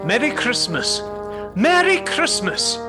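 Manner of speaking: cheerful greeting, rising and stretched on the repeat; hearty holiday good wishes to people in the street. Acted. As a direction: hail passers-by with delight. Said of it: "hearty holiday greeting".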